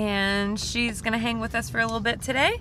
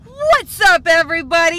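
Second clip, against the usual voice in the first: much higher, loud YouTuber intro; hyped vlogger greeting; 6 semitones higher, 10 dB louder than usual. Pretend. Ashley greeting her viewers, over-the-top vlogger hype. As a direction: burst in with big influencer energy. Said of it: "It's your girl".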